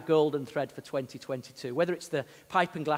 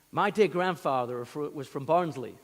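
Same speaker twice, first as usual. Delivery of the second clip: slow, badly faked Yorkshire accent; hammy stab at a Yorkshire accent; terrible attempted accent. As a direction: have a poor go at a Yorkshire accent. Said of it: "That's a terrible accent, by the way".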